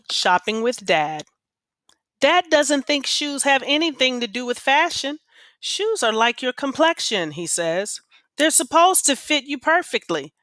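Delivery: lively read-aloud for a class, voicing the kids lightly; story read aloud. A narrator's reading. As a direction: read the story to your students, drawing them in. Teacher reads novel aloud.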